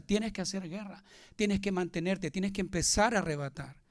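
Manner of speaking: ritmo de predicación enfática, cada "tienes que" marcado; fervent preaching. Acted. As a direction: insiste como predicador que exhorta a la congregación. Builds an emphatic preaching list. (predicación fervorosa y rítmica)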